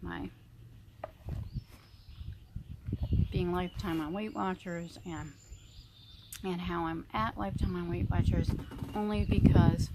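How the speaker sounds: talking while chewing salad; words round a bite of food; mouth full. Real, not acted. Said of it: "now I'm gonna start eating my salad".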